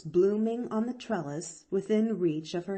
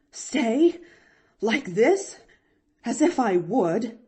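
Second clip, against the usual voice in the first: indignant; 4 semitones higher, 8 dB louder than usual. A narrator's reading. Aunt indignant retort.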